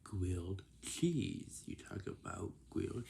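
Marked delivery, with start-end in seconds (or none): 0.0-1.6 curt reply. Shown as a demonstration. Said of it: "They're gonna say".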